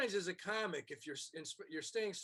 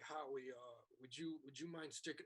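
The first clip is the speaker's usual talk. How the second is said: soft timid ask; 6 semitones lower, 9 dB quieter than usual. Retold or imitated. Manager asks nervously.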